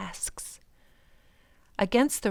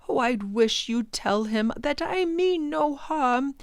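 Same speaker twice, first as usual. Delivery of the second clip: lightly voiced professor; 6 semitones higher, 3 dB louder than usual. Professor pleads with the Proc.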